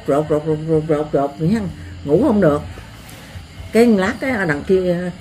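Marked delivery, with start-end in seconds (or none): 0.1-1.6 scraping sound imitation. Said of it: "Kéo nghe".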